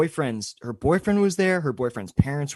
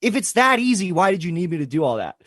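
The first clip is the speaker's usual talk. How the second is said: loud, high, fed-up outburst; exasperated outburst; 6 semitones higher, 4 dB louder than usual. Retold or imitated. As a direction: vent the frustration at the cops. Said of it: "And I'm like".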